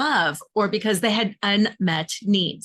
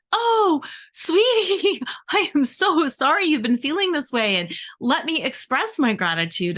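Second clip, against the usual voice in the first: 1 mock sweet sympathy. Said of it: "been like".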